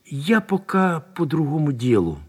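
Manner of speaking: "пока по другому" slow, with clear unreduced o; distinct o sounds. A narrator's reading. Lieutenant excuses himself, saying "пока по другому" with distinct o. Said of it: "особенно явственно выговаривал сейчас «о»".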